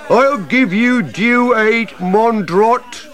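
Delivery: high, slow put-on French voice; mock French. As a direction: ham up a French woodcutter. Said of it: "listen to 'em".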